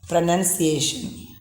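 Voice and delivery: PRONUNCIATION as "pro-nun-see-ay-shun"; correct pronunciation. Shown as a demonstration. Teacher models the word given here, pronunciation with "nun". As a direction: say "Pronunciation" with "nun", not "noun". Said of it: "it should be pronounced as pronunciation".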